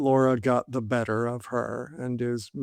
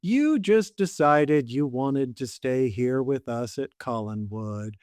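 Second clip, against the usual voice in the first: fake sweet lie. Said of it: "Vicky straight up lies to him".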